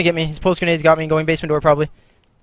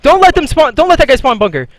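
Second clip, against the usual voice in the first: shouting orders; 6 semitones higher, 5 dB louder than usual. Real, not acted. Yelling orders at teammates.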